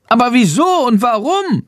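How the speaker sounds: high, squeaky bat, appalled; tut, then squeak like a creeped-out bat; small bat voice finding it creepy; little bat voice. Acted. Narrator voices the bat Chandor.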